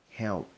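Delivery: "Help" ending with pressed lips, like "heo"; lips closed on help. Shown as a demonstration. Teacher showing lip closing on help. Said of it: "bặm môi lại".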